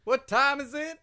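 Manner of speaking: mock announcer call; hype call. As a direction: whip up the crowd for the segment. Cueing the segment chant.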